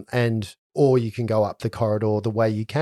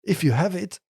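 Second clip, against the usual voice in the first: high timid voice; 6 semitones higher, 3 dB quieter than usual. Acted. GM voices Saloni.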